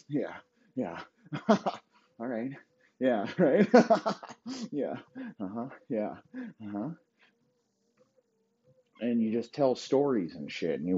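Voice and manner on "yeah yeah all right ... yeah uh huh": mock coked-up laughing. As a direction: play the giggly partier nodding along. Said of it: "and you laugh real hard, like".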